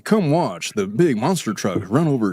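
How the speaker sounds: light mock monster truck announcer; lightly hyped truck rally promo. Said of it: "like a monster truck ad".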